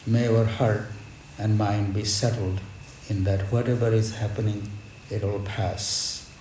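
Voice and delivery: usual speaking voice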